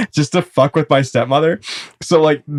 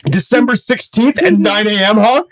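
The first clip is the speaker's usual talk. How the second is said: mock dad; 8 semitones higher, 3 dB louder than usual. Dad listing the date.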